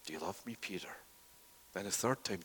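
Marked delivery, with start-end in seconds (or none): 0.1-1.0 soft question. Acted. Jesus questions Peter again.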